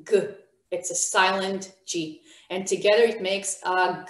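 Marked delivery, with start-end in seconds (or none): 0.0-0.2 "g" as a bare hard guh; consonant sound demo. Shown as a demonstration. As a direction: sound out "g" alone, without the ah. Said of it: "The second one is g".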